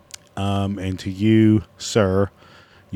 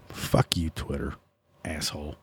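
whispered, much softer swearing under the breath; muttered curse; 6 semitones lower, 12 dB quieter than usual. Real, not acted. Cursing Twitter under his breath for not being signed in. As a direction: grumble it to the screen.

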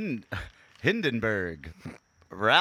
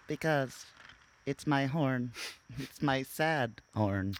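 droopy, slow and soft; slow mournful mumble; mopey sad voice; 2 semitones higher, 4 dB quieter, slower than usual. Pretend. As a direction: say it like a deflated sad sack. Sad penis voicing the man.

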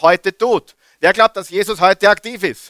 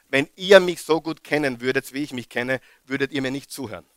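low murmured admission, then rushed at the end; hushed confession; 5 semitones lower, 7 dB quieter, faster than usual. Shown as a demonstration. Preacher confessing quietly to his congregation, hushed. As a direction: drop almost to nothing, confiding.

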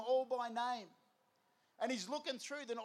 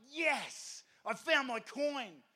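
drawn-out mock cheer; celebrate, stretching the key words; acted triumph; 2 semitones higher, 3 dB louder, much slower than usual. Woman finds her coin under the cat, acted triumph.

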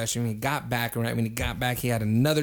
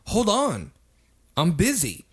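higher-pitched, impatient bartender impression; mock brush-off; 6 semitones higher, slower than usual. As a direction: brush off a pestering customer. Retold bartender brushes him off.

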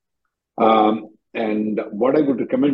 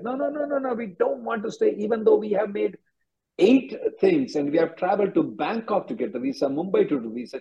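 starts much higher, mimicking their protest; a pitched-up mock plea, parroting the applicants; 7 semitones higher than usual. Lawyer mocking visa applicants' claims, high mock voice. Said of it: "Now they are going back and saying that".

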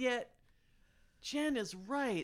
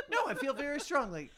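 higher mock conviction; imitating Alex; 5 semitones higher, 4 dB louder than usual. Teasing a friend who always backtracks, mock conviction. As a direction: insist firmly, playing up the certainty. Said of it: "Alex's second most used word".

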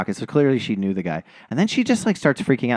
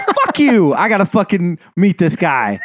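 high, louder disbelieving outburst; retold thrilled shock, pitched up; mock stunned excitement; 6 semitones higher, 5 dB louder than usual. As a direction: blurt it out high like you can't believe it. Own excited inner reaction.

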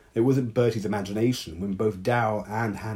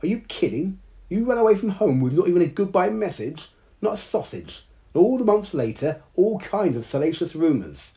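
much higher, louder duck voice, mocking; derisive duck; 10 semitones higher, 5 dB louder than usual. Bertie the duck to Hannah about leaving home, derisive high quacking. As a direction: scold her like an indignant duck. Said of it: "honked derisive laughter".

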